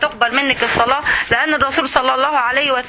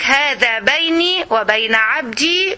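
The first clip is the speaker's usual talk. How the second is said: slow solemn recital; slower than usual. Shown as a demonstration. Voicing God's reply in hadith.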